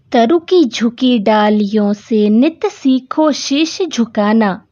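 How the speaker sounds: put-on slow, measured verse reading for children; unhurried classroom recitation of verse; poem recitation. Shown as a demonstration. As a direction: recite each phrase slowly and deliberately.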